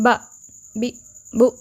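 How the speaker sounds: बा, बी, बू cut off too fast with a jolt; wrongly jerked syllables; jerky clipped vowels. Shown as a demonstration. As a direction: snap बा बी बू off abruptly as the wrong way. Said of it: "इतनी जल्दी पढ़ दिया कि उसमें झटका".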